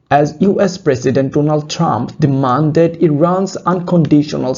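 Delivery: slow article read. Shown as a demonstration. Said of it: "teacher reading article aloud".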